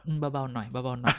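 mock hushed order. Cohost imitating bosses telling the gang to tone it down, hushed. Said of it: "ผู้ใหญ่สั่งมาบอกว่า".

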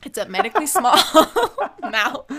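laughing through the words; real giggle overtaking the sentence; cracking up. Real, not acted. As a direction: break into a high laugh mid-phrase. Cracks up at own phrase.

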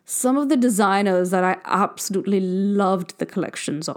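light posh drawl, slow, darling after darling; a hint of a snooty fashion editor; lightly voiced posh fashion insider asking her friend; posh fashionista accent. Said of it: "I'm done with that accent".

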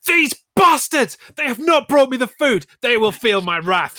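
high, loud hammed-up fury; mock rage. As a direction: ham up a villain's rage at the takeaway. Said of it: "But I was like".

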